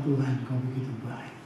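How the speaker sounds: low, hushed thanks to God; grateful prayer. Retold or imitated. Pastor thanking God for the tour deal, hushed and grateful. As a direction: drop soft and low in reverent gratitude.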